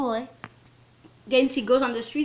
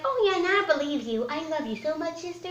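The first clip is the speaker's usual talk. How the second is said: high, put-on sweet-talk; mock affection in a raised voice; imitated gushing sister talk; 7 semitones higher, faster than usual. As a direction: mimic her gushing, pitched up. Mimicking her talk to the sister.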